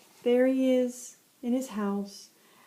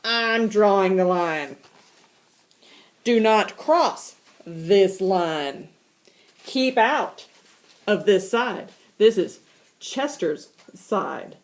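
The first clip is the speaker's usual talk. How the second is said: bossy cat; 2 semitones lower, slower than usual. Acted. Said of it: "Chester says".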